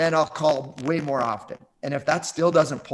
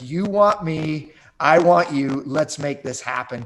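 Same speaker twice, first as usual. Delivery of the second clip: eager challenge; 4 semitones higher, 5 dB louder, slower than usual. Retold or imitated. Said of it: "type call".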